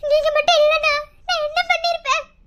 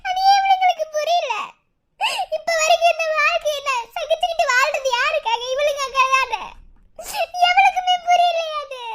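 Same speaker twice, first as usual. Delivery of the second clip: tearful wailing. Acted. Aunt wailing over daughter.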